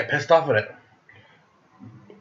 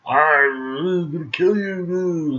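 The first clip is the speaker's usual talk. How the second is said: mock threat; 4 semitones higher, much slower than usual.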